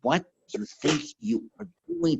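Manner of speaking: high-pitched, indignant mock retort; imagined yelling back. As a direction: act out snapping back in anger. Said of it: "to yell back".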